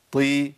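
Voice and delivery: "طي" with a heavy T before "ee"; strong ط with kasra. Shown as a demonstration. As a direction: keep "طي" strong despite the kasra. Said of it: "ليه بتخليها قوية كده". ("طي" بطاء مكسورة قوية)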